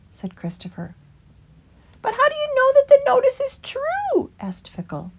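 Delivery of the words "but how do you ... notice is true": higher whispered rabbit question; whispered doubt. A narrator's reading. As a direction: breathe the doubt. Fickle asks.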